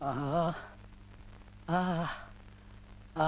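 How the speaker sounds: soft drawn-out "aah" of pain; acted aching moan; pained groan. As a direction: groan after a fall. Groans after tripping and falling.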